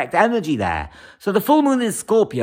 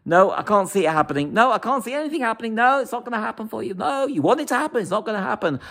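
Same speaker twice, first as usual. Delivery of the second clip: a hint of a skeptical rabbi, hurried; dismissive rabbi; 5 semitones higher, faster than usual. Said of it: "a Kabbalistic rabbi, said to me".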